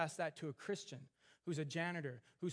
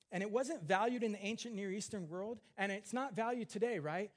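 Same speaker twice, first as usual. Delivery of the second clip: preaching emphasis; 5 semitones higher, 4 dB louder than usual. Real, not acted. Preacher raising intensity.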